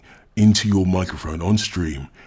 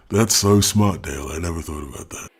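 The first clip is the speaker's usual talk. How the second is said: sarcastic. Acted. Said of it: "sarcastic praise of Dale".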